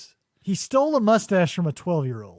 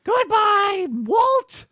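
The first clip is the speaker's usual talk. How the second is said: high hammed-up cartoon goodbye; half-hearted melodrama; 10 semitones higher than usual. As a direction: bid a hammed-up tragic goodbye. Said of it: "half-hearted, attempted".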